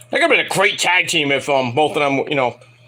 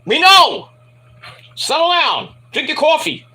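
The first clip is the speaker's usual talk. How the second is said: mock exasperated; 7 semitones higher than usual. Telling Terry to settle.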